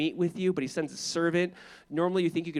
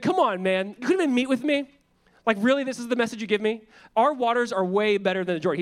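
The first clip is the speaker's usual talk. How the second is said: indignant; 5 semitones higher, 4 dB louder than usual. Retold or imitated. Naaman complaining about the message.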